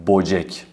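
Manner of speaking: بوجک first with o, then with ö; wrong then right. Shown as a demonstration. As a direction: contrast بوجک with o and with ö. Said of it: "که غلط هست". (بوجک غلط و درست)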